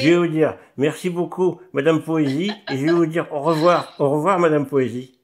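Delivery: talking around a pen held in the teeth. Real, not acted. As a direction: speak with a pen clamped between your teeth. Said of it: "je vais continuer, moi, avec mon stylo dans la bouche".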